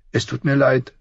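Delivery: put-on high, tearful girl's sob; sobbing girl. A narrator's reading. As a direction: sob out the apology like a child. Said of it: "schluchzte sie".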